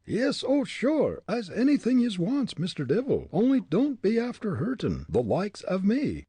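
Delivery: high, loud Irish pleading; shrieky panicked brogue; frightened begging. A narrator's reading. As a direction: agree in a panic, begging for mercy. Terrified Irishman begs the head.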